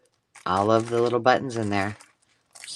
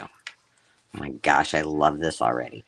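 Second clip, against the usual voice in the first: awed; 7 semitones lower than usual. Real, not acted. Delighted by the journal.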